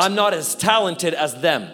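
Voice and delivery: low, defeated inner voice; dejected, low-pitched admission; self-doubting. Acted. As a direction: act out discouraged self-talk, pitch dropped. Voicing self-doubting thoughts.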